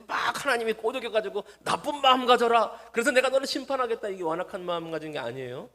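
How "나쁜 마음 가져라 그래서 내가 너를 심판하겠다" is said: high, loud acted decree; mock booming command. Preacher parodies God goading Pharaoh, loud mock command. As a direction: bellow it as an exaggerated divine order.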